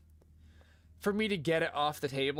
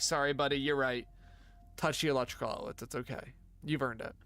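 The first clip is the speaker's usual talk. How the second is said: retold consoling; 3 semitones lower than usual. Dad comforts upset son, retold.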